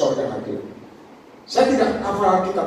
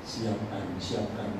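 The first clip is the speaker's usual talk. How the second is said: low, hushed instruction; Father's voice; 7 semitones lower, 10 dB quieter, much slower than usual. Retold or imitated. God the Father telling the preacher to prepare, low and hushed. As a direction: say it softly and low, word by word. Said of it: "Bapak ngomong".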